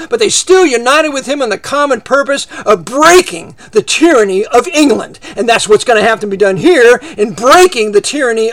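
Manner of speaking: loud, driving sermon; fiery preaching. Acted. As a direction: thunder against the wicked. Fiery preaching against enemies.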